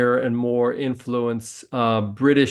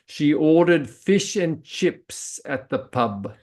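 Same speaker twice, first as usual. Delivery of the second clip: example sentence; 4 semitones higher, slower than usual. Shown as a demonstration. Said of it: "You would say".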